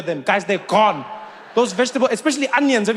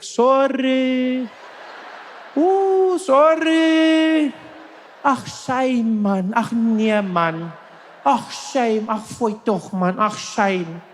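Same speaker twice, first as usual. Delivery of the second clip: South African sympathy; 5 semitones higher, much slower than usual. Retold or imitated. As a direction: cluck over someone like a South African auntie. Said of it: "They'll all be there like".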